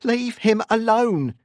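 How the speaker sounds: loud, high, slow drawn-out yell; demanding. A narrator's reading. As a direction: demand it at a scream. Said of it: "she continued to demand".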